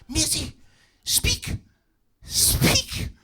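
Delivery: very high, strained cry to speak; urging cry. Acted. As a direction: beg her to talk. Family urging her.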